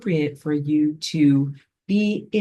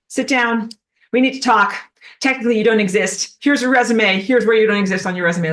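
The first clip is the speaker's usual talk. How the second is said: slightly raised, brisk mock HR voice; human resources officer; 4 semitones higher, 4 dB louder, faster than usual. Human resources confronting non-God stuff, mock officious. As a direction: play an HR officer giving a dismissal. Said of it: "like, human resources".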